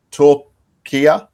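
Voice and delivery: Turquia tried out with a questioning rise; careful pronunciation attempt. Shown as a demonstration. Host checking how it's pronounced properly now, careful questioning pronunciation. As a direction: say Turquia tentatively, ending on a lift. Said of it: "Is that how it's pronounced".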